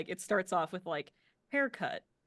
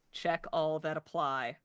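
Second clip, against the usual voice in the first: tinny voice; 4 dB louder than usual. Acted. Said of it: "a tinny voice come out of the speaker".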